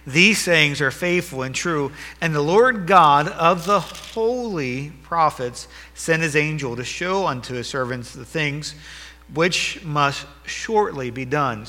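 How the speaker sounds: slow, weighty scripture reading; unhurried pulpit reading; slow solemn reading. Acted. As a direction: let every word land. Reads verse slowly.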